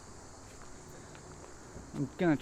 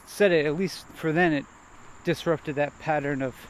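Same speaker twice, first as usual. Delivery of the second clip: usual speaking voice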